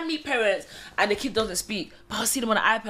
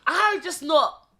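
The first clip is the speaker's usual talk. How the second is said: laughing insistence; 8 semitones higher, 3 dB louder than usual. Real, not acted. Laughing while swearing it's true.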